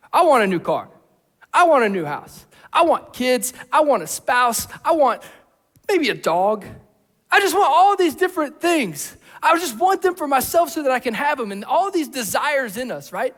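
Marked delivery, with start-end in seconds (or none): 0.1-11.5 mock craving. Imitated greedy inner wishes.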